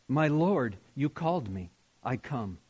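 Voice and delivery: hushed, low and soft, like a waking prince; spoken softly. Acted. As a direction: breathe it softly to your king. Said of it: "he spoke softly".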